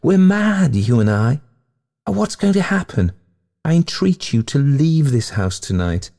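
high-pitched, carried-away outpouring; rapturous. A narrator's reading. Ghost to the man she is haunting, in high rapture. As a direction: plead in a rapture, pitch lifted. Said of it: "she agreed with rapture".

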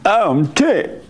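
mild mock Pope complaining he's ticked; Pope impression. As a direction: play the Pope being ticked off, lightly and with a laugh. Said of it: "like the Pope".

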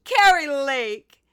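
high, loud, slow manufactured TV-anchor voice; Carrie Lake. Retold or imitated. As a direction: stretch it out like a polished, over-rehearsed broadcaster. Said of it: "my favorite person right now to imitate".

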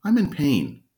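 a retold whimper, lightly voiced; mock crying dog. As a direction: play the hurt dog crying out.

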